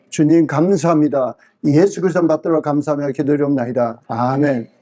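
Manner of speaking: measured, reverent prayer voice; leading a mealtime prayer for the church group; spoken prayer. Acted. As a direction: pray steadily for the group. Leads a meal prayer.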